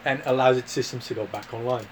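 Aussie explainer, pausing between phrases; mock Australian accent. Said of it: "Australia, mate".

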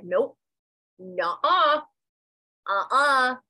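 hammed-up defiant no-no-no; defiant refusal. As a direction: shake it off with a firm no.

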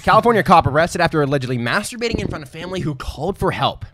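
announcer headline read. Shown as a demonstration. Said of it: "Let me read this for TikTok".

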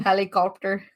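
Aussie "Helicopter" with an R put before the P; attempted Aussie accent. Shown as a demonstration. Showing that Aussies put R's on everything, attempted Aussie accent. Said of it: "It's like a R".

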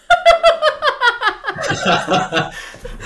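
very high, drawn-out laughter; long high laugh. Real, not acted. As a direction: laugh long at the awkward story. Laughing at the retold disaster.

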